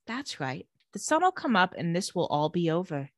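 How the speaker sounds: soft, low, soothing coaxing; creepy sweet mom. Retold or imitated. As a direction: imitate an eerily calm mother. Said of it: "She's so creepy in this".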